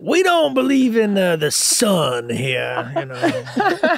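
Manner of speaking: slow mock Southern drawl; hammy Southern accent; cartoon Southern accent. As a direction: stretch it out like a hokey Southerner. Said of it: "I love that you do that accent".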